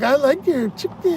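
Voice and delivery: high put-on Mexican-accented woman; high Mexican accent imitation; Sofia Vergara. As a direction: mimic a Mexican accent, pitched well up. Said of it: "a Sofia Vergara kind of Mexican voice".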